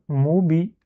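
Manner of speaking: "moubi" as a separate unit; syllable alone. Shown as a demonstration. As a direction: set "moubi" apart, clearly sounded. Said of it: "Ça, c'est le deuxième".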